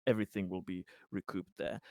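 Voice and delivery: lightly voiced hesitant assurance; Conrad, placating. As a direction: reassure him haltingly, choosing words with care.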